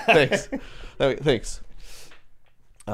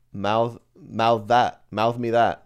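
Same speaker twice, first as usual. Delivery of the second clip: announcer title; much slower than usual. Pretend. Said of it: "We're gonna call this one".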